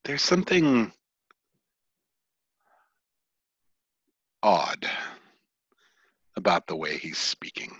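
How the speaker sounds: soft narration broken by long suspenseful pauses; hushed scene setting. Acted. Game master hinting at something odd to players, hushed.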